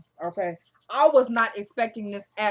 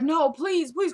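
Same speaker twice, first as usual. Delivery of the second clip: higher-pitched imitated begging; desperate pleading; 5 semitones higher, slower than usual. Woman begging not to be disposed of, mock-desperate. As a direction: act out a frightened plea.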